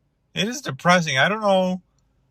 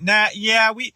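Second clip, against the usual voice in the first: higher-pitched mock Brooklyn vendor; put-on Brooklynite voice, raised pitch; imitated Brooklyn seller; 7 semitones higher than usual. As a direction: play an indignant Brooklyn counter worker, pitched up. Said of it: "in Brooklyn they're like".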